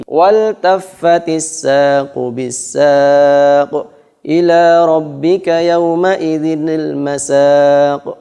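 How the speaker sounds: slow chanted recitation of the verse; slow Quranic recitation. Shown as a demonstration. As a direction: recite the verse slowly and melodically. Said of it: "reciting Quran verse".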